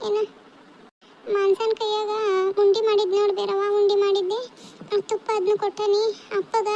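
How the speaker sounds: understated acted tearfulness; tearful farewell. Daughter sending food home with her mother, mildly tearful. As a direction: give parting instructions while holding back tears. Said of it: "ಯಾಕ್ ಅಳ್ತೀರಿ ಅಂತ".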